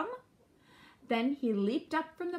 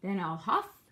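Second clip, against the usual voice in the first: loud wolf, swelling on the long blow; big storybook villain bluster; wolf's threatening cry; 2 semitones higher, 8 dB louder than usual. A narrator's reading. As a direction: build slowly to a loud, stretched threat. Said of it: "cried the wolf".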